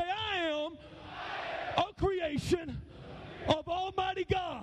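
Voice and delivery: measured call-out in short phrases, pausing for response; leading a declaration. Shown as a demonstration. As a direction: lead the men in a proud chant.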